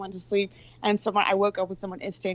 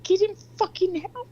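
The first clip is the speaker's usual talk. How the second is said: retold order; 11 semitones higher than usual. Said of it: "And I'm like".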